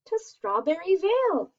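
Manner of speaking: mild mouse squeal. Acted. Mouse names the berry spot, light squeal. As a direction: keep a hint of the mouse's squeak. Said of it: "Mouse squeals".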